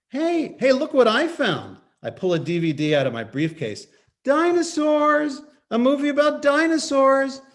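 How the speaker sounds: high, loud, eager; bright distraction. Acted. Father distracting his son with a dinosaur movie, high and eager. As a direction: sell it to a toddler.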